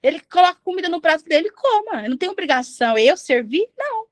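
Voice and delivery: mild mock anger of a wife at her husband; mock angry spouse. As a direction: imitate a fed-up wife refusing to serve. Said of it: "tá bravo com o seu cônjuge e você fala".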